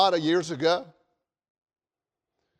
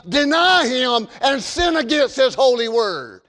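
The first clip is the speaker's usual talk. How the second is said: preaching; 7 semitones higher, 4 dB louder than usual. Acted. Pastor preaching to congregation.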